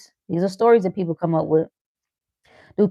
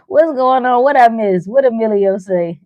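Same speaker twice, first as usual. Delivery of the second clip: louder, eager questions; nosy excitement; 4 semitones higher, 6 dB louder than usual. Acted. Asking what was missed, loud and eager. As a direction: lean in eager to gossip.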